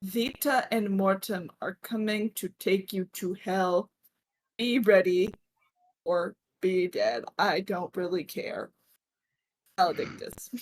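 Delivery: measured, deliberate letter reading; letter read aloud. Acted. Game master reads letter aloud.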